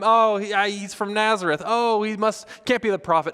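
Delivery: high, loud mock crowd chatter; tossed-out opinions. Crowd throwing out opinions about Jesus, mock excited. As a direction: toss out each guess as a different onlooker. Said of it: "Everyone's just throwing out their opinions".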